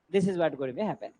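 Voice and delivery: slow and deliberate, word by word; slow emphasis. Shown as a demonstration. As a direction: spell it out slowly for the class. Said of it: "teacher stresses the key point". (నెమ్మదిగా నొక్కి చెప్పడం)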